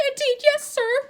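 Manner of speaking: high, squeaky, loud elf voice near tears; tearful house elf. A narrator's reading. House elf reproaching Harry, squeaky and tearful. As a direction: plead like a weeping servant elf.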